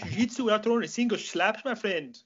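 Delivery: playing the fighter in an instructional video; hammed-up humble champion talking to camera; Tom Halpin impression. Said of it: "You did it perfectly".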